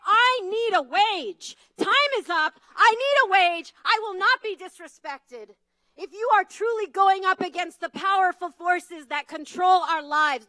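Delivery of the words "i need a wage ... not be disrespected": raised, high and loud, demanding a wage; defiant declaration. Retold or imitated. Rally speaker voicing women who demand a wage, loud and defiant. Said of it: "women of color stand up and say".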